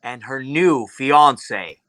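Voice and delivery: grand proclamation from the heavens; stately, commanding father god; booming Zeus voice. Acted. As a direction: announce it like a god, with long pauses. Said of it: "a large booming voice".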